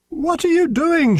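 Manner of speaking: high-pitched scolding shout; shouted question. A narrator's reading. Noggin to children caging the mouse, shouting. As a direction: call it out sharply, pitched high. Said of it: "shouted Noggin".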